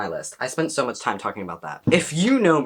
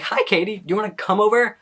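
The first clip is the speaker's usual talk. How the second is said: higher-pitched, eager invite; chirpy quoted hello, pitched up; retold friendly invitation; 8 semitones higher, 3 dB louder, faster than usual. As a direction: act out inviting a friend over.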